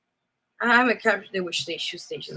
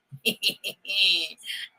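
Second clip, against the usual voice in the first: evil laugh; 3 dB quieter than usual. Pretend. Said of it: "That's my evil laugh".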